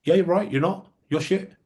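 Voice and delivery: a lightly voiced blunt bandmate; blunt drummer. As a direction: hand him the harsh truth with a grin. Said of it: "And he goes".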